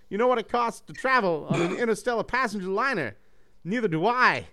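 a cocky robot shrugging off the cost; breezy Hot Rod. Acted. Hot Rod explaining to the hero why he shipped himself, breezy.

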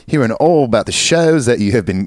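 put-on half-committed Aussie accent, about to crack up; tentative mock Australian. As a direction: read it lightly Australian. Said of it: "I'm doing this in Australian accent".

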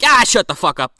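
hammed-up exasperation; mock irritated outburst. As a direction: shut someone down abruptly. Acting out irritated immediate put-down.

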